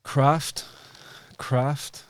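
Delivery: "craft" hit high and loud each time; stressed repetition. Real, not acted. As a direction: punch "craft" twice, rising. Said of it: "repeated emphasis".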